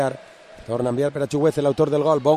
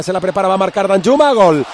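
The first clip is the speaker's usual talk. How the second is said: building goal call; 4 dB louder than usual. Real, not acted. Goal scored, commentator erupts.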